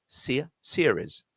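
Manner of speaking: series starting with the ear vowel, seer then series. Shown as a demonstration. Teacher drawing out the ear vowel in series. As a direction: stretch the seer in series slowly. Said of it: "That's the ear vowel".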